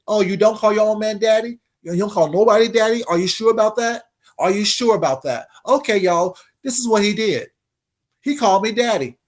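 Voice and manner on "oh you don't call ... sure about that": taunting challenge. Real, not acted. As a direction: needle him, gloating. Taunting the rival's lie.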